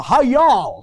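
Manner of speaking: drawn-out Kentucky greeting; Kentucky accent. Shown as a demonstration. Visiting preacher teased about his Kentucky accent, playful Kentucky drawl. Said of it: "so you speak a Kentucky accent".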